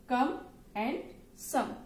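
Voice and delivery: slow, separate the K in come from the S in some; contrasting first sounds. Shown as a demonstration. Teacher contrasting come and some for a child, slow and clear. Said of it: "The difference is C and".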